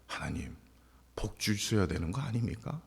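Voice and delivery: whispered, half-voiced plea to God; softly voiced inner prayer; hushed plea. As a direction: murmur the complaint to God under the breath.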